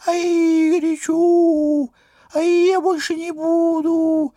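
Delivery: small squeaky paper voice; a tiny voice whining; thin little voice. Acted. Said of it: "разливался тоненьким голоском".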